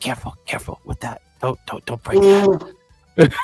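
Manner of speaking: hushed whispered voice. Describing a game, voicing what's heard as each jar goes in, whispered voice. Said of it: "you hear the whispered voice go".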